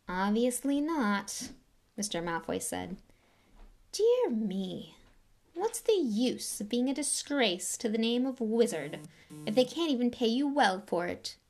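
lightly voiced, slow silky disdain; cold aristocrat. Lucius greeting Arthur, lightly voiced cold disdain. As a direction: greet him like something unpleasant.

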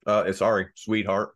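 patronizing sweet tone; condescending. Acted. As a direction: talk down to her sweetly. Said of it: "You said it so condescendingly".

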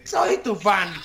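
slow, sultry reading voice; sultry narrator. Shown as a demonstration. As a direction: read it slow and seductive, like a late-night host. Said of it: "¿Lo leo con voz sexy o con voz normal?".

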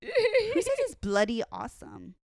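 high laughing question. Real, not acted. Host teasing cohost about bloody, laughing. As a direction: ask it through laughter. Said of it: "laughing at the accent".

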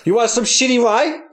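lightly imitated Chinese caricature; rising question, hint of Chinese accent; mock Chinese accent. Podcaster imitates cartoon owner, mock Chinese accent. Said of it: "he pronounces it Shitty Walk".

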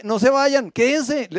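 "No se vayan, quédense" given as a firm command; as an order. Retold or imitated. Jesus orders the disciples to stay, firm command. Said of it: "en forma de orden".

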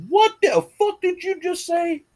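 high, slow, menacing demand; menacing challenge. Retold or imitated. A small guy squaring up to the bully, slow and menacing. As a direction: square up and spit it out.

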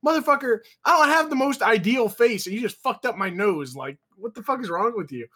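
indignant retelling, starting high and settling; exasperated griping, acted out; retold anger. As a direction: re-enact being mad at your friend. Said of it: "I was really just mad".

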